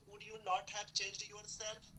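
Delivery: slow, deliberate English sentence; slow dictation. Shown as a demonstration. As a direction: say each word slowly for the students. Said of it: "ऐसे कई सारे sentence आप बोलते हो बेटा". (धीरे-धीरे वाक्य बोलना)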